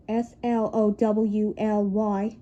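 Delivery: very slow, each letter apart; slow deliberate spelling; spelled slowly. Shown as a demonstration. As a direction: drag it out letter by letter. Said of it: "spells slowly".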